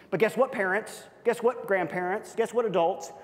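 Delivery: high emphatic calls to each group; rally the parents, grandparents and adults; high rousing calls; rising call-out. Acted. Preacher calling out groups.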